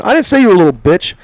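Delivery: high, argumentative protest; retold indignant denial. Trainee correcting trainer during an argument, indignant. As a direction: act out denying it mid-quarrel.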